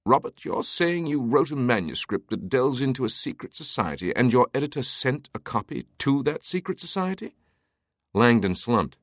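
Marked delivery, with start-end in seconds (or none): 0.0-7.3 lightly voiced Teabing, mildly amused and higher; higher pitch climbing into an incredulous question. A narrator's reading. Teabing hearing of Robert's manuscript, mildly amused disbelief. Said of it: "let out a guffaw".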